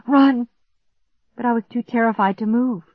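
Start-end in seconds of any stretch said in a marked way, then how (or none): 0.1-0.5 loud, higher urgent 'run'; urging oneself. A narrator's reading. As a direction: push out a sudden, urgent command to yourself. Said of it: "I told myself".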